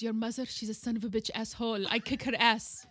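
imitating mom's loud mock threat; mother's threat. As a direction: scold her like an angry mother to the grandson. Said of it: "she looks at my son and goes".

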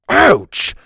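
high sharp yelp of pain; sudden ouch. Acted. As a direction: cry out as if you bit your tongue. Pinched his tongue whistling.

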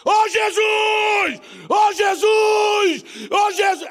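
long-drawn, high full-force shouts. Acted. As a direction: bellow it out, stretching every word to carry far. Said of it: "Mas aí ele gritava mais".

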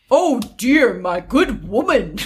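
put-on man's voice, slipping Irish; hammed-up manly voice with an accidental lilt. Prince addressing the widow, attempted man voice. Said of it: "I'm gonna do my man voice".

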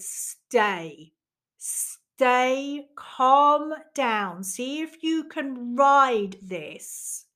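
slow, drawn-out words, rising in pitch; retold self-calming voice. Inner voice talking her out of leaving, slow and steadying. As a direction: stretch each word to steady yourself.

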